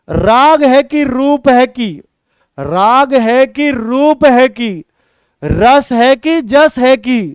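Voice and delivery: slow rhythmic verse chant; slow recitation. Shown as a demonstration. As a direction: chant the lines in a steady beat. (लयबद्ध काव्य पाठ)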